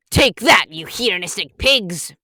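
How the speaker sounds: loud battle cry; mock battle cry at the pigs; triumphant attack shout. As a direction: hurl it like an attack. Nature spirit attacks.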